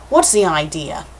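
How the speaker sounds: the man's voice, close to the reader's own; male character. Acted. Line given by mistake to the man who fell, plain male voice. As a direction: read it as the man, not the girl. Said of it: "not him".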